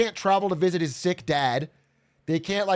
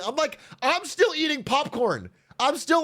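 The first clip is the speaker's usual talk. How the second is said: amused retelling; 10 semitones higher than usual. Real, not acted. Recalls smugly watching on.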